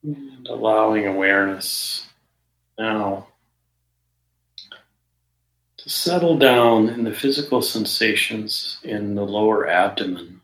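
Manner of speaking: measured meditation guidance with long pauses between phrases; guided meditation. Real, not acted. Meditation teacher settling listeners into the body, guided meditation. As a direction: guide listeners unhurriedly, leaving silence after each phrase.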